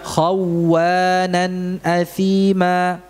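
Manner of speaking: Khawwanan athima drawn out slowly; slow recitation demo. Shown as a demonstration. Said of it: "Ya, jadi bukan khawwa".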